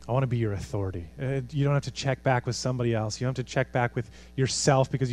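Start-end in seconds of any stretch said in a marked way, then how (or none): 0.1-1.1 gentle Jesus. Retold or imitated. Preacher voicing Jesus softly inviting surrender. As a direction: lower and softer, gentle invitation. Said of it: "And Jesus would say".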